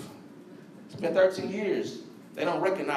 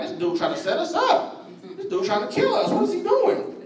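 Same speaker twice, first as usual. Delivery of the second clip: nervous panic; 10 semitones higher than usual. Retold or imitated. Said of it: "They like".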